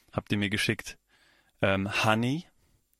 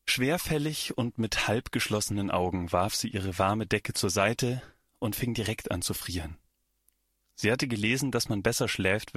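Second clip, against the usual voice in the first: measured, deliberate read-aloud storytelling; story narration. A narrator's reading. Author reading her short story to listeners, story narration.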